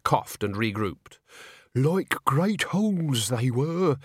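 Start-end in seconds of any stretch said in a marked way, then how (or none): 1.8-4.0 put-on higher, very slow, spooky old voice; theatrical doom-monger; ghoulish old man. A narrator's reading. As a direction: draw out the horror for effect. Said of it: "he began".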